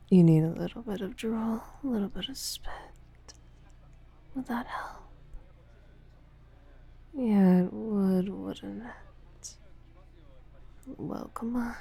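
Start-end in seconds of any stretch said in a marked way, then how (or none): none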